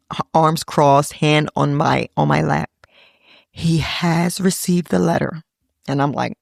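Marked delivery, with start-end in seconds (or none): 3.5-5.4 slow, grave announcement; mock-solemn sister; solemn after-school special. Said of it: "after-school special face. and voice".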